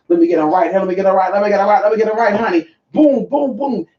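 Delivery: rapid-fire repeated exorcism chant, playful; mock exorcist. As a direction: build into mock exorcism blows. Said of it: "y'all witnessing a live exorcism".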